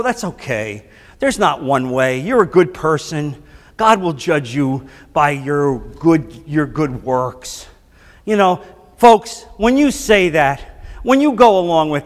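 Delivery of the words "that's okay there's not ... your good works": low, soft imitation of easygoing reassurance; imitated live-and-let-live soothing; mock placating. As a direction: placate them in a lowered, soft voice. Mimics placating talk to unbelieving friends.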